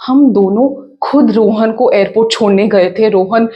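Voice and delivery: loud, fast, stammering reassurance; flustered daughter-in-law. Acted. Daughter-in-law urging in-laws to ignore the crash call, flustered. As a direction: talk over them urgently, pitch jumping on each address.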